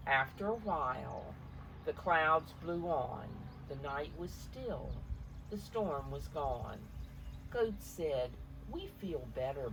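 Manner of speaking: gentle read-aloud picture book voice; story narration. A narrator's reading. Parent reading the storm page aloud to a child, gently.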